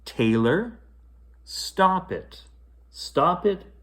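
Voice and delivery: mother yelling over the mess. A narrator's reading. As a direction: snap her out of the tantrum. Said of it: "Taylor's mother came in and yelled".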